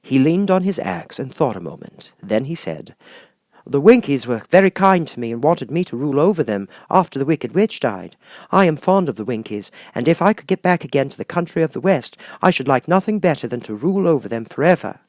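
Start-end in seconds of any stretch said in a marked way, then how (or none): 3.6-15.0 slightly higher, thoughtful tin man; a touch of a gentle tin man musing; lightly voiced Tin Woodman. Tin Woodman telling Glinda about the Winkies, lightly voiced and thoughtful.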